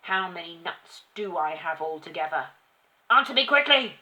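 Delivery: shouting tyrant. A narrator's reading. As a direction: berate the child, drawing out each insult. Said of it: "shouted the Trunchbull".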